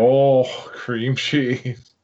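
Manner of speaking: slow, suggestive drawl; knowing drawl. Acted. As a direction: draw it out with a wink. Innuendo reply, drawn out.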